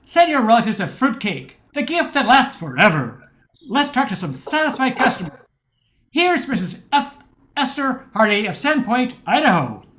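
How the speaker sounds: put-on old-fashioned announcer. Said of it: "upbeat but old-fashioned delivery".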